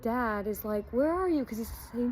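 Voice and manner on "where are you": high searching call, lightly acted; calling back. Dad calling out to find his son in the bush, searching call. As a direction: call out as if hunting for your son.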